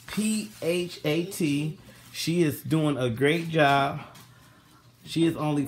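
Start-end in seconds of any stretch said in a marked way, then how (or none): 0.1-1.8 P H A T spelled letter by letter, slowly and a bit higher; slow spelling. Shown as a demonstration. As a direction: spell out P H A T slowly so viewers catch each letter. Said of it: "and that's P H A T".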